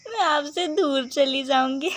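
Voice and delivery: sad words through a giggle; laughing through it. Acted. Bride laughing about leaving her mother. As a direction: laugh while saying goodbye.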